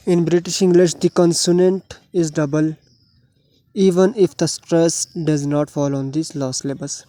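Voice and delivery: very slow, deliberate dictation of the rule; rule read aloud. Shown as a demonstration. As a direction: spell the rule out word by word for students. Reads English rule aloud. (बहुत धीरे, शब्द-शब्द पढ़ना)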